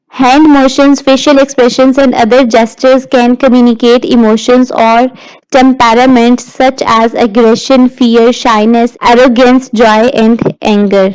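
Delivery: slow, measured reading of slide text; slow lecture read-aloud. Acted. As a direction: read the definition out word by word, slowly.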